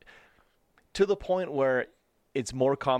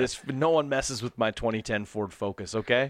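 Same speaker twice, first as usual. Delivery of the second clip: mock tough guy. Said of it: "you're just like".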